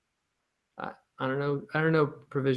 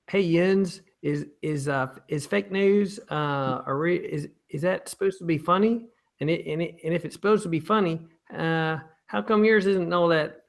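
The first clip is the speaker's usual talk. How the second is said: put-on raised, louder Pittsburgh accent reading a question; 5 semitones higher, 4 dB louder than usual. Host reading a viewer question in Pittsburgh accent. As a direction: read it like a Pittsburgh local, yinzer style. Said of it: "read this one in a Pittsburgh accent".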